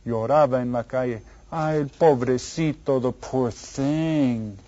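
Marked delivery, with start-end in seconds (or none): 1.5-4.6 drawn-out sympathetic cooing; mock pity. Teacher pities the crying lost bus, drawn-out mock sympathy. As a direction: stretch it out slowly in sympathy.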